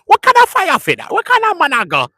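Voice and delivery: high, loud mock Jamaican rant; Jamaican patois. Imitating Jamaicans arguing about the gym, in a high loud Jamaican accent. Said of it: "So they say".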